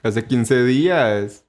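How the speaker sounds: drawn-out, deliberate insisting; playful stubborn correction, very slow; slow insistence. Acted. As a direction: stretch each word out stubbornly. Repeats the claim stubbornly.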